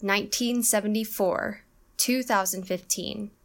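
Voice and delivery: NINEteen seventy-FOUR, TWO thousand fifTEEN; first and last stressed. Shown as a demonstration. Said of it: "first and last syllables".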